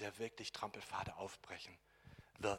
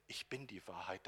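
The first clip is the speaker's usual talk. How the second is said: whispered; 4 semitones lower, 6 dB quieter than usual. Acted. Whispered repeat of key sentence.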